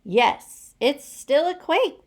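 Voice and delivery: high, loud group shout. A narrator's reading. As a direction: shout it together in alarm. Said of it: "they all shouted".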